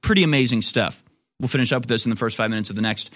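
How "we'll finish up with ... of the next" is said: pushy promo read over music; hard sell ad. Acted. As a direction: sell it like a pitchman. Host reads store promotion.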